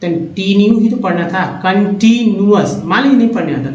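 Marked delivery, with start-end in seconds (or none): 1.6-2.8 कंटिन्यूअस slowly, as kan-tee-nuas; teacher's slow model of कंटिन्यूअस; sounded out in parts. Shown as a demonstration. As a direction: stretch कंटिन्यूअस, with no extra i before the u. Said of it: "कंटिन्यूअस पढ़ेंगे".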